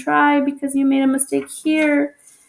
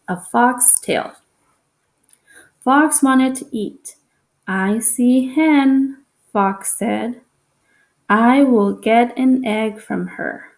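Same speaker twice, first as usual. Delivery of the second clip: reads the story slowly to the class; slow, careful reading-aloud voice; slower than usual. Shown as a demonstration. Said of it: "if Miss Cortez was reading right now".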